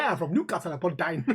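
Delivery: lightly put-on Newcastle accent; put-on Geordie accent. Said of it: "Should have added pet on the end".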